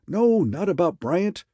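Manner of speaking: high, loud, slow impatient snap; snapped. A narrator's reading. Raymond correcting Harker on the phone, high loud snap. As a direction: bite the correction off sharply. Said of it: "Raymond snapped".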